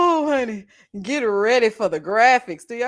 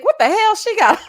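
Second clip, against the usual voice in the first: high-pitched, amused cry of disbelief; retold loud outcry; 10 semitones higher, 7 dB louder than usual. Streamer recalling first seeing her on screen, high outcry. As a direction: re-enact a shocked holler, breaking into laughter. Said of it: "I said it so loud".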